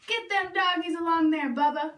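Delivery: lightly voiced, bossy stepbrother giving orders. Stepbrother on horseback bossing Bubba around, lightly bossy. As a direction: boss Bubba around like a lazy cowboy. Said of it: "ordered Dwayne".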